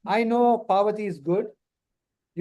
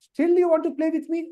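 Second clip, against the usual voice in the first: teasing; 7 semitones higher, much faster than usual. Acted. Teasing the class.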